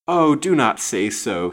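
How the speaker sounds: slow, loud, emotional plea; wild protest. A narrator's reading. Lady answering his rebuke, wild protest. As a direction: cry out against the rebuke. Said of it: "she answered wildly".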